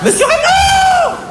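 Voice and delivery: very high, slow, drawn-out shriek; shrieking for the boss. Retold or imitated. Comedian mimics the cashier howling for her boss, very high and long. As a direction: holler for the manager across the shop. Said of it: "hurla-t-elle".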